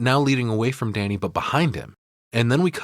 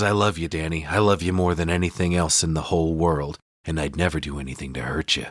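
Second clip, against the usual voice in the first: imitating Jack; 5 semitones lower than usual. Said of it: "He goes".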